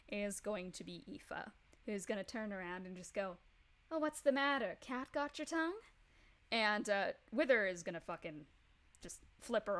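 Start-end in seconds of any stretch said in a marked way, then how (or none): 3.9-5.8 mocking taunt. GM voices Aoife taunting Wither.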